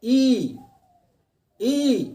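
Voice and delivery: ई said high and held, from the palate; demo of ई. Shown as a demonstration. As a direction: sound out ई high, tongue to the palate. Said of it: "आप उच्चारण कीजिए". (तालु से ऊँचा खिंचा हुआ ई)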